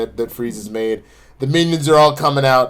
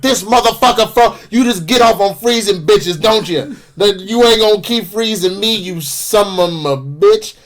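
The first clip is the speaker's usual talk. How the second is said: mock angry rant, pitched up; Harley; 5 semitones higher than usual. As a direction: imitate mounting exasperation, stretching the last insult. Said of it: "gets more and more angry".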